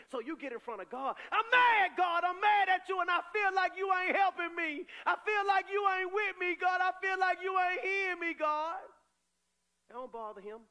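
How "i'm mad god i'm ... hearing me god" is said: loud, high, frustrated yelling at God; a believer shouting out anger in prayer to God; angry shout at God. Acted. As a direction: vent at God at full volume. Preacher acts angry prayer.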